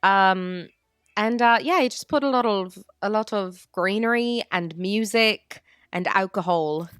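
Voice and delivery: light Scottish-Irish accent; lilting Irish accent. Shown as a demonstration. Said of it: "in my Scottish slash Irish voice".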